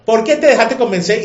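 repítelo más alto y más agudo, como reproche; loud rebuke. Acted. Preacher repeats the rebuke louder. (pregunta de reproche en voz alta)

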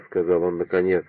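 usual speaking voice

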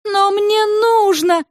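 high, slow begging; girl pleading with her mother. A narrator's reading. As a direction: beg mom for the diary. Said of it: "взмолилась Света".

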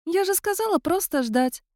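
cat spirit calmly stating she is dead. A narrator's reading. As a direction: say it as a matter of fact.

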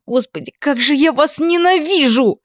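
very high, desperate hatred; furious cry. A narrator's reading. Furious, near breaking.

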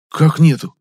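loud, high shocked question; a sudden loud cry of disbelief; startled outburst. Acted. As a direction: blurt it out in disbelief. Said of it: "от неожиданности".

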